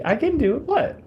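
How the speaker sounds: high, strained British voice; attempted British accent. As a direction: try a British accent and slip. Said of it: "As you also just heard".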